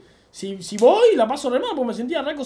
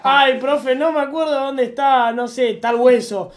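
a touch of mock coy pleading, louder; playing dumb flirty; 2 semitones higher, 7 dB louder, slower than usual.

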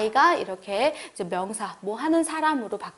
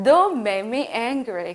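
warning; much slower than usual. Shown as a demonstration. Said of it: "경고하시면서 얘기하시는 거예요".

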